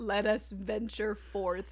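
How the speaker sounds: very slow, drawn-out echo; stretched-out mocking recital; mock-grand quote. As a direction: savor each word teasingly. Mocks co-host's written note.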